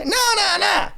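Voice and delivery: high, laughing soul-singer dodge; soul singer impression. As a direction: wave off the question grandly.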